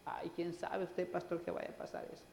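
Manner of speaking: soft, half-whispered doubting plea; doubtful believer. Retold or imitated. Doubting believer voiced to pastor.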